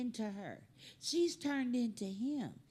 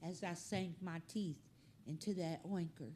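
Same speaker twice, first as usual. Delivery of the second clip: softer, solemn mock poetry reading; mock poem recital; 5 semitones lower, 7 dB quieter than usual. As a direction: recite it like a grave little poem. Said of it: "If that dog wrote a poem".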